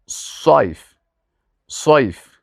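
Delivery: صیف with a long heavy s; صیف, weighty "ssayf"; emphatic Sad. Shown as a demonstration. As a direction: say صیف with a thick s and darkened vowel. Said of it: "اما صاد".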